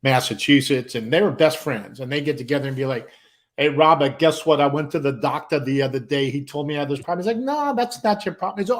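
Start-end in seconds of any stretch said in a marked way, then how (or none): 3.6-7.3 New York guy. Retold or imitated. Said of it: "this one guy was from New York". 7.4-8.6 high-pitched retort in a mock squabble; imitated bickering New Yorker; bickering friend. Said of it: "these guys were at it".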